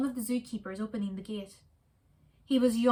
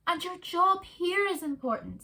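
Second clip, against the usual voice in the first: meerkat wife voice; 8 semitones higher than usual. Acted. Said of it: "said Kevin's wife".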